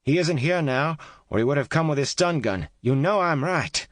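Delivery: high, loud begging call; pleading call. A narrator's reading. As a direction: beg her to answer, loudly. Kate pleading loudly through wall.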